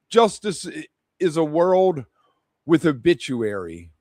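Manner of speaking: measured spoken-word recital, lines falling at the end; poem reading. Acted. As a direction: recite your poem with deliberate pauses between lines. Reads third poem aloud.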